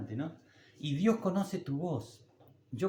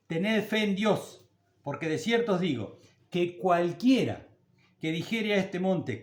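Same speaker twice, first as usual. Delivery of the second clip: scripture reading; 2 semitones higher than usual. Acted. Preacher reading Mark eleven aloud to the church, proclaiming. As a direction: proclaim the verse to the flock. Reads Marcos once aloud.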